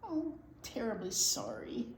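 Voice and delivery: soft murmured apology. Acted. Mouse murmuring sorry to Bear. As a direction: apologise under your breath. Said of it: "murmured the mouse".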